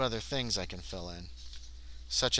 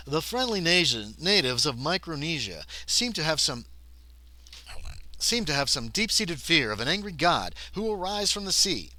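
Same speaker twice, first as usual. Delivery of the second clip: animated storyteller reading with swooping pitch; game book narration; 4 semitones higher, 3 dB louder than usual. Acted. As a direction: read it out with theatrical weight. Reads game book passage aloud.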